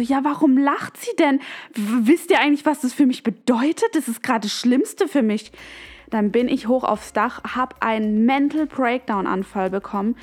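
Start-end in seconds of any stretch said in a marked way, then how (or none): 0.0-5.5 retold indignant outburst, higher pitch at first; worked up. Upset daughter-in-law complaining to her husband about being laughed at, worked up. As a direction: complain to your partner, mildly agitated. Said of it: "ich reg mich halt voll auf".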